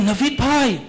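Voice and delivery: lightly voiced admiring model, stretched out slowly; slow, high flattering model voice; imitating the model. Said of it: "And she tells me".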